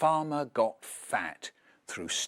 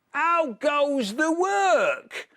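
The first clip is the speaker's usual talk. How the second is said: high, slow, loud bossy call; farmer calling; 12 semitones higher, 5 dB louder, much slower than usual. Acted. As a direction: bellow it down like a lazy farmer. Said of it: "he called".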